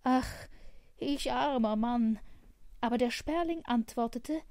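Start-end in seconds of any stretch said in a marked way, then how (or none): 0.0-2.2 loud, woeful exclamation; lamenting cry. A narrator's reading. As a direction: cry out in self-pity. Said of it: "rief er".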